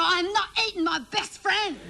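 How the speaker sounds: high-pitched mock outrage; hammed-up indignant outcry; indignant refusal. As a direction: protest it like an outraged kid. Child protests at being told to eat.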